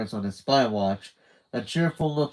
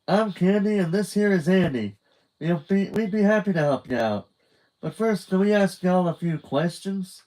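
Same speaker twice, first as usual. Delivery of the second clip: higher, chirpy North Dakota voice; North Dakota accent; 8 semitones higher, 4 dB louder than usual. A narrator's reading. Candy introducing herself in North Dakota accent. Candy keeps her twang.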